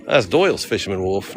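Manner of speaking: failed Australian accent sliding into Boston. Shown as a demonstration. Tourist failing at the local accent, sounding Boston. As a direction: aim at Australian, land in Boston. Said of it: "No, that's Boston again".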